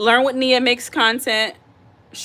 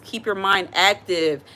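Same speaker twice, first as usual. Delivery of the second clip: slow self-reminder; slower than usual. Real, not acted. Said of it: "I'm talking to myself".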